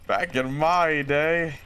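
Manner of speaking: put-on slow old-timer voice; old man voice. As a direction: reminisce slowly like an old man. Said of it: "I sound like an old man".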